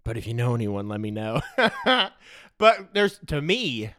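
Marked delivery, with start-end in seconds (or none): 1.5-2.1 high laugh. Real, not acted. Laughing at meth joke.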